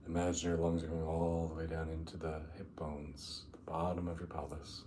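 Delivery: unhurried meditation guide, long pauses between phrases; guided meditation. Acted. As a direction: ease them down into the breath, drawing out key words.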